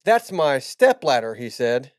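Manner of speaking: giggling through the punchline; barely holding back laughter; cracking up mid-line. Real, not acted. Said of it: "You can do a dramatic reading of that".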